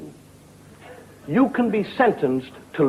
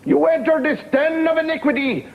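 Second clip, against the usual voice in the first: prim nun voice; 11 semitones higher than usual. Acted. Nun warns the drunk at the pub door, high and prim. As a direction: lecture him like a prim old nun.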